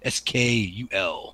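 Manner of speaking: "S K U L" spelled slowly, one letter at a time. Shown as a demonstration. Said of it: "how's it spelled?".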